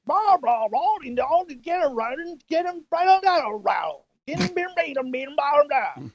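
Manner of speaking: high, rapid, slurred mock Australian gibberish; fast Australian mumble. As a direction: rattle off nonsense like a mumbling Australian colonel. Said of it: "he's like".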